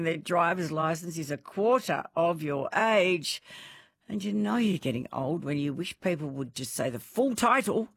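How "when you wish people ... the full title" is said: mildly put-on, fussy complaint; that pedantic complaining voice. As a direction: lightly act out an old person's grumble. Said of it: "you say it in that voice".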